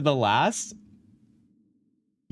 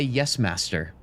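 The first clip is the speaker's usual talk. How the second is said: Alistair's murmur; 3 semitones lower, slower than usual. Retold or imitated. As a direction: mutter "Yes, master" like a resentful companion. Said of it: "he would say".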